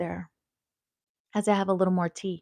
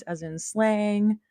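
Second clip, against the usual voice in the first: slow explanation; 2 semitones higher, much slower than usual. Shown as a demonstration. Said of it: "what the word crib means".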